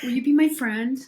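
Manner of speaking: put-on high, eager little kid voice; pleading child asking for friendship; childlike plea. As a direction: ask it like a shy child on the playground. Repeating friend request in kid voice.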